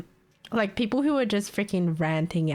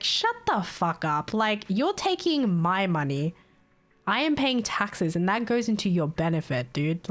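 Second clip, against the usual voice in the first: imagined angry retort. Retold or imitated. Imagined retort to rude caller.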